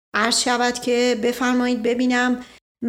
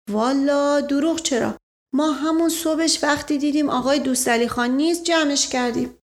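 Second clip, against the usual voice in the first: lightly voiced servant, slightly raised pitch; humble servant; 3 semitones higher than usual. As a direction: explain innocently as the simple servant. (نوکر ساده با صدای کمی زیر)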